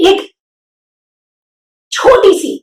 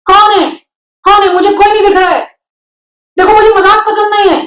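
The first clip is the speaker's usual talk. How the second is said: startled pig; 7 semitones higher than usual. A narrator's reading. Wilbur voiced, startled.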